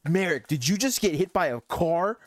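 incredulous rising question; excited friend. Retold or imitated. Friends running up to someone just hit by a car, excited. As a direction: imitate a buzzing, amazed high school friend. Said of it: "as audibly excited as they were".

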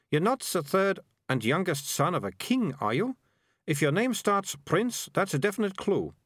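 put-on a bossy girl explaining things; prim girl. Melissa quizzes the kid.

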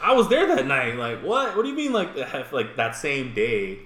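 high, loud freaked-out questioning; panicked disbelief. Retold or imitated. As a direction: rise high in alarmed disbelief. Panicked retelling of news alert.

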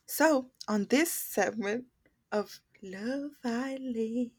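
slow, drawn-out show opener; podcast host intro. Acted. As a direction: announce the segment like a host. Opens a show segment.

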